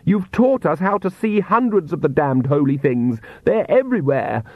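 high-pitched hysterical tirade; screamed rant. A narrator's reading. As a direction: rant at father, pitch climbing toward the end. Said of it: "Lacrimosa screamed".

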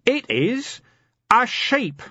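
high, wailing, tearful; weeping and high, far from himself. Acted. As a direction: sob it out like a broken man. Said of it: "it wept".

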